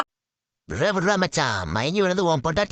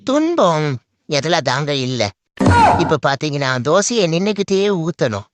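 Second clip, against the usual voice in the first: loud complaining rant; comic loud grumbling; 6 dB louder than usual. Acted. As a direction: hammer out the grievance loudly. Ranting about cooking dosa.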